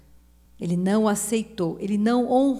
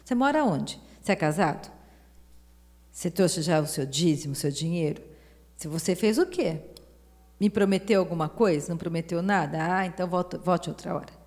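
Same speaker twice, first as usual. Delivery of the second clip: mocking gatekeeper; faster than usual. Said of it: "não perguntava". (imitando um porteiro desconfiado, voz mais aguda)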